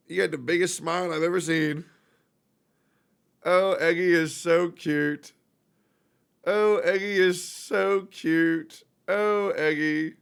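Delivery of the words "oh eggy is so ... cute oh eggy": slow, drawn-out pet talk; adoring coo. Real, not acted. Owner telling Eggy he's cute, slow cooing. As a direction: stretch each word in doting affection. Gushing over his cat.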